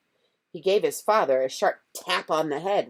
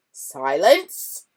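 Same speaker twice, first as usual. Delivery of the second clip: loud bark; yell; 11 dB louder than usual. A narrator's reading. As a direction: yell silence. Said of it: "yelled Uncle Vernon".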